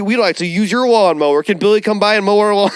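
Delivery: put-on high, neighborly white suburban accent; hammed-up white American neighbor; mock a chummy white suburban accent; generic white American accent. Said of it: "that is the generic ass white accent".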